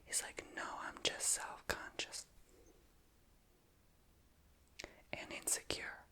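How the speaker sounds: whispered storytelling with long pauses. Real, not acted. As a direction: tell the story in a whisper, quotes included.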